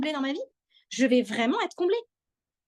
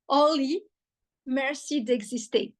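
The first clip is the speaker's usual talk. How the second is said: put-on French with a light American accent; slower than usual. Quoting an American friend's thanks, lightly American-accented. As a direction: imitate a friend's slight American accent, slowly. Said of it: "avec son petit accent américain".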